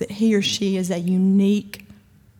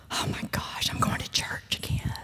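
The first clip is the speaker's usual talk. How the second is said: put-on whispered childish grumble; mock kid's groan, whispered; 10 dB quieter than usual. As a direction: sigh it like a bored kid dragged to church.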